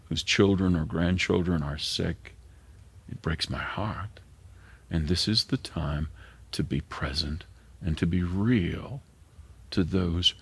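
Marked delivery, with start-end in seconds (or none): 3.1-4.2 whispered, soft and hushed; heartbroken whisper. Real, not acted. Pastor speaking of the suffering sick, whispering softly. Grief over dying parishioners. 6.5-10.3 hushed urging. Real, not acted. Urging presence to the suffering.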